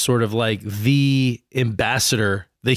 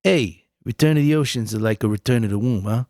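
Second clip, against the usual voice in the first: mock Tommy Meatballs. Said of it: "You do Tommy Meatball".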